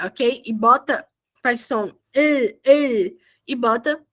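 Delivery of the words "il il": slow "il", the L held against the teeth; final Korean L. Shown as a demonstration. Teacher demonstrating tongue placement, held L in "il". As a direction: stretch "il" on a clear tongue-tip L. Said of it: "a língua nos dentes superiores ali".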